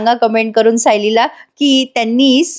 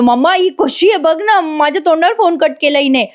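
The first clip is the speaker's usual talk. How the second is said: higher, sulky son complaining to mom; whiny complaint; 5 semitones higher than usual. Acted. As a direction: tell on her like a hurt child. Arjun complains to mother. (आईकडे तक्रार करणारा मुलगा, रुसक्या उंच आवाजात)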